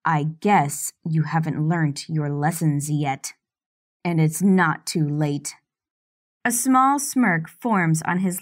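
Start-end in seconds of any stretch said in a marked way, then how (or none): 0.0-5.6 low menace. Acted. Master threatens her.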